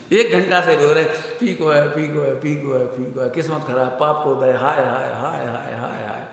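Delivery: hammed-up self-pity, fading to a moan; a hammed-up lament that trails off; mock wailing lament. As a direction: moan like a sulking devotee, dying away. Acted lament over bland milk.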